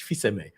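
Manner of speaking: Fils-Aimé said the French way as fee-seh-MAY, with a silent L; Fils-Aimé said fee-seh-MAY with the L and S dropped; French pronunciation. Shown as a demonstration. Explaining his family name to listeners, Fils-Aimé said fee-seh-MAY. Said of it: "And that's how you say it, um, in French".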